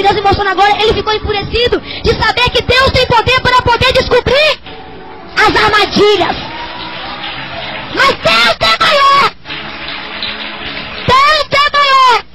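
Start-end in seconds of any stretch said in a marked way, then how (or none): 1.8-6.4 higher, swelling into a shout; rising, forceful proclamation; building preacher's cry. Real, not acted. Sermon builds to a climax. 7.9-12.2 very high, drawn-out roar of faith; full-force revival cry; triumphant preaching shout. Real, not acted.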